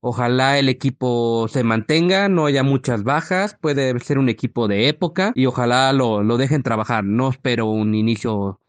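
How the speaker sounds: rough, worn voice after a long day; hoarse from shouting at the match. Real, not acted. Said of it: "perdón por la voz ronca".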